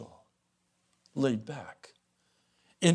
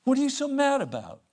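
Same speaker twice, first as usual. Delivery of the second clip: pastor asking why; 10 semitones higher, 4 dB louder than usual. Retold or imitated. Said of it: "I said".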